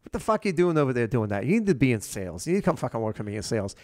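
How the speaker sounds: imitated Boston sales boss; Boston accent. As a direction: put on a light Boston accent. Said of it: "in Boston accent".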